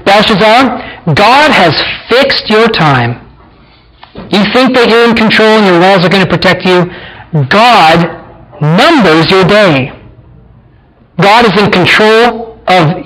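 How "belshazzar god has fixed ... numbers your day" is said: very slow, weighty verdict to a king; slow solemn pronouncement. Retold or imitated. Daniel pronouncing judgment on Belshazzar, slow and solemn. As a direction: spell out doom word by word, slowly. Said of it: "He says".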